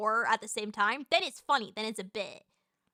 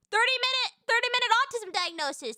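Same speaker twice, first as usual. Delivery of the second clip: amused disbelief; 10 semitones higher, faster than usual. Real, not acted. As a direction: crack up at the result, pitch way up. Reacting to a funny chat result.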